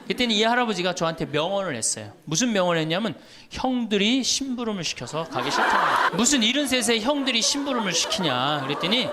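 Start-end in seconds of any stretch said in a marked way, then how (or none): 3.5-8.6 laughing through the quote. Retold or imitated. Retelling absurd elder complaint, laughing.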